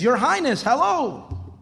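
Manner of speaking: a hint of a parrot greeting royalty; talking parrot. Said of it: "And then he says".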